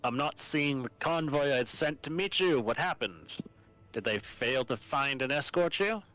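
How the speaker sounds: lightly voiced formal governor; a hint of a stern military governor; Medina voice. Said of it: "You can voice Medina".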